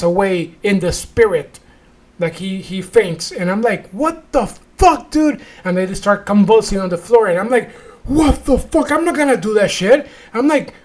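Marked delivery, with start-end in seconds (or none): 3.9-5.4 high, drawn-out mock shock; retold disbelief. Telling how he saw a man faint, high incredulous voice. 8.0-10.1 high-pitched mock alarm; retold disbelief. Watching people convulse at a ceremony, high incredulous voice. Retelling refusal at convulsing worshippers.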